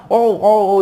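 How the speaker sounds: half-hearted acted howls of pain; mock pained yell. Schoolboy faking appendix pain as he is prodded, mock yell. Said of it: "इस तरीके से वो चिल्लाने लगा".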